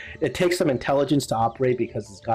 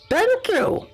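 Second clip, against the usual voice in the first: creature voice. Acted. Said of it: "the creature says".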